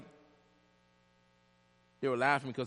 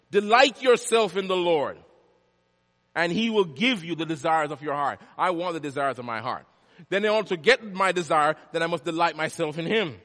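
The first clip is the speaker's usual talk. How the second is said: projected scripture preaching, somewhat raised voice; 4 semitones higher, 8 dB louder than usual. Real, not acted. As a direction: declare the psalm firmly to the congregation.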